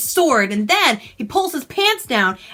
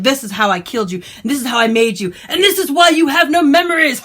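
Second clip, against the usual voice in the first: mock villain reveal; 3 dB louder than usual. Villain prince's reveal, laughing.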